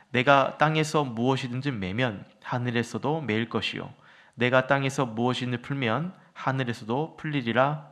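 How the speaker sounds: measured, formal Bible reading; scripture reading. A narrator's reading. Pastor leading the congregation in responsive verses, formal scripture reading. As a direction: read scripture aloud, verse by verse.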